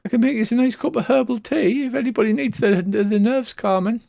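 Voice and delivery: a fussy hostess smoothing things over; sweet hostess seer. Acted. Seer offering the shaken party herbal tea, sweetly high.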